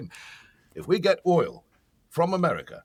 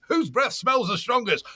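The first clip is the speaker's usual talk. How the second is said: shout; 6 semitones higher, slower than usual. Retold or imitated. Mock contest at the door, shouting.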